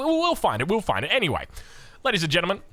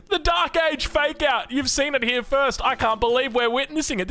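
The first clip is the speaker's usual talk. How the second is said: laughing; 12 semitones higher than usual. Real, not acted. Caster laughing as he hypes the Dark Age fake out. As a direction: still laughing while hyping the play.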